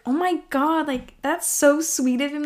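high, lightly gushing delight. Retold or imitated. Gushing over a crush's music playlist, high and delighted.

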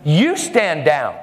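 slow, pointed command; retold firm order. Nurse to airline attendant, slow firm command. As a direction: turn the order back, word by word. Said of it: "looks at him and says".

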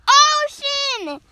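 high, loud, drawn-out OCEAN, falling at the end; delighted exclamation. Acted. Shark loves the name, high drawn-out exclamation. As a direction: proclaim OCEAN as the winning name.

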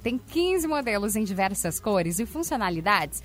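upbeat radio ad read; hard sell ad. Acted. Reads sponsor ads on air.

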